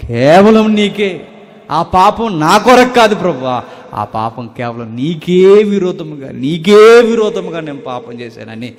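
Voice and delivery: loud, high, impassioned sermon voice; fervent preaching. Acted. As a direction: proclaim the psalm to the whole church. Preaching the psalm verse.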